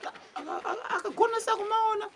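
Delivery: high stutter, giggling; stammering squeaky voice. Acted. Stammering mad patient.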